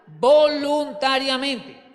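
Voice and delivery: slow, loud, high stretch on "voluntariamente"; stretched emphasis. Real, not acted. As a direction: ring out "voluntariamente" slowly. Preacher repeats the key word.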